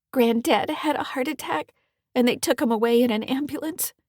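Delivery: a girl reporting bad news, upset; teen daughter. Kelly voiced by narrator.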